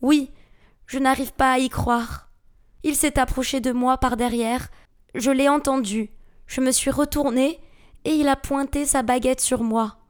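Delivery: shaken, breathless telling in short bursts; short of breath. A narrator's reading. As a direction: recount an attack while catching your breath. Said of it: "le souffle court".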